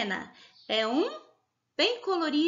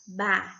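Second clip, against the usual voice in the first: "ba-ri-ga" in three separate beats; separated syllables; 4 semitones lower, much faster than usual. Shown as a demonstration. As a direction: break "ba-ri-ga" up, pausing long after each syllable. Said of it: "Leia e separe em sílabas". ("ba-ri-ga" sílaba por sílaba, com pausas longas)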